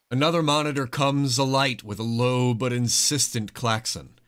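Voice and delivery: ordinary talk, nothing marked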